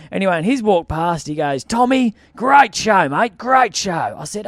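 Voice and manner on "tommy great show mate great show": acted hailing praise. Voices audience member hailing him.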